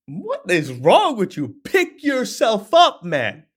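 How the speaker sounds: high, teasing "pick yourself up" jab; mock tough-love friend; guy friend ribbing a mopey pal; best friend scolding. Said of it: "they're like".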